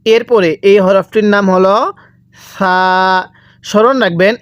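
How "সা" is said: gentle, drawn-out সা; soft letter সা. Shown as a demonstration. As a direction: say সা with a soft th-like sound, vowel held long. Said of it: "এই সাটা আমরা নরম করে পড়ব". (সা নরম করে টেনে)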